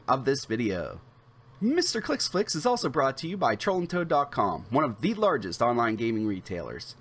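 brisk, polished promo read; scripted ad-read delivery, evenly projected; sponsor read. Acted. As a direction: read it like a rehearsed channel sponsor spot. Reads the sponsor intro.

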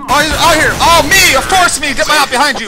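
exasperated yelling. Real, not acted. Alarmed, exasperated callout in game.

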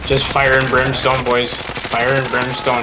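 slow relish. Real, not acted. Savoring the team wipe.

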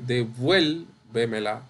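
"devuélvemela" with VUEL as the strong syllable; de-VUEL-vemela, leaning on VUEL; stress on VUEL. Shown as a demonstration. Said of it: "es la sílaba tónica".

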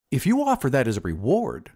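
mildly eager; a touch of eagerness. Acted. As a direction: jump at the offer a little. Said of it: "said the glassblower eagerly".

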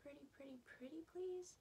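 rising, begging pretty please; pleading. Acted. Mom begging through door.

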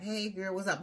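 high, chummy mock hello; casual greeting.

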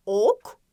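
"Ok" with the O firmly stressed; stress on initial O. Shown as a demonstration. Teacher repeating for first graders, stressed O in "Ok". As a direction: lean on the O at the start of "Ok". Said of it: "O sesini başta vurgulayarak".

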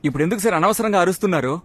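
heated protest. Acted. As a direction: refuse to be shouted down. PT master argues back at shouting.

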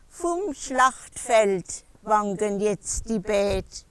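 lively Palatine dialect verse recital; poem recitation. Acted. Poet performing a comic dance poem for listeners, lively rhythmic recitation. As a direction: recite rhythmically, pausing between short phrases.

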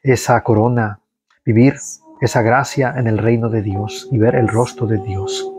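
leading prayer in a steady devotional voice. Acted. Prayer leader to livestream viewers, steady devotional voice. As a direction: pray it out for the faithful departed.

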